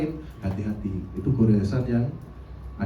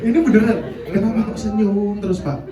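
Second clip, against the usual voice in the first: laughing; 5 semitones higher than usual. Real, not acted. Teacher laughs retelling his students' question, laughing.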